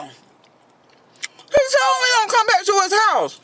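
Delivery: high, slow mock wail; mock crying. Imitating the crying date, high and slowly wailing. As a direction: ham up her sobbing complaint. Mimicking date's crying complaint.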